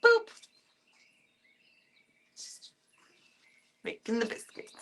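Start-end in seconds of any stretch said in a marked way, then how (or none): 2.4-4.8 soft. Real, not acted.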